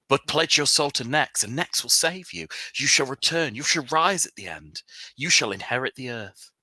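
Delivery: high, rolling sermon cadence; fervent preacher. Acted. Cult preacher urges the sinner to pledge his soul, fervently preaching. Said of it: "he's preaching".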